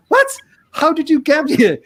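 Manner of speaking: high, incredulous mock question; imitated astonishment. Copenhagen officer hearing of a Saint Petersburg theft, incredulous. Retells puzzled officer's reaction to story.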